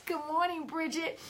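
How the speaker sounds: slips into a soft whisper to greet; hushed aside to a viewer. Real, not acted. Greeting a viewer mid-talk.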